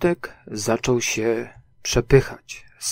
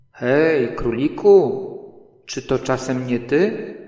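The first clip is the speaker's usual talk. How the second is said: louder call into the burrow; 3 semitones higher, 5 dB louder than usual. Acted. Pooh calling down the hole to Rabbit, louder. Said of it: "powiedział".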